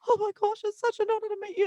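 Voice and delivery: high, fast gushing fan voice. Retold or imitated. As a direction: gush like a starstruck fan near tears. Tearful fans meeting star.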